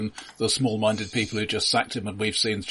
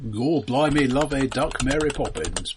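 put-on Cockney accent; 3 semitones higher than usual. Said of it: "Come in with your Cockney accent".

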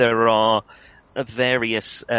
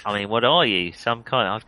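failed Cornish sliding Australian; Australian-tinged questioning; stuck in Australian. Acted. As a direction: play the farmer with an accidental Australian accent. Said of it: "I can't get out of Australia now".

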